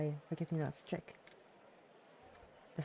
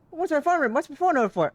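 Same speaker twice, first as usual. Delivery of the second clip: laughing high; 9 semitones higher, 7 dB louder, faster than usual. Real, not acted. Reading a silly message, laughing.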